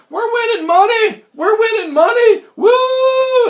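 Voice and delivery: high, loud whooping cheer; excited yelling. Retold or imitated. Gamblers in the subway celebrating, high excited shouts. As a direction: yell it like a winning crowd. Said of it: "I hear these people yelling".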